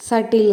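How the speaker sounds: సటిల్ said with a silent b; correct pronunciation. Shown as a demonstration. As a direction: pronounce సటిల్ as "SAT-il". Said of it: "అని పలకాలండి".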